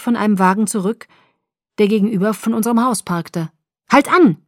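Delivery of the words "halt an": high, loud burst; blurted out. A narrator's reading. Bella to Jacob as she spots the parked car, blurted shout. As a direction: blurt it out sharply, raised pitch. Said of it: "stieß ich hervor".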